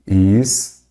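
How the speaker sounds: "História" split as his-TÓ-ria with pauses; "História" in separated syllables, stressing TÓ. Shown as a demonstration. Teacher splits example word into syllables.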